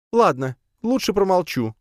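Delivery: high, sharp spider snap; curt reply. A narrator's reading. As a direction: cut it short, offended. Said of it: "резко ответила Лея". (резкий ответ)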